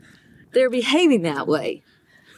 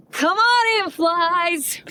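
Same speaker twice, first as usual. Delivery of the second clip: quoting little brother; 7 semitones higher, much slower than usual. Retold or imitated. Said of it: "and you said".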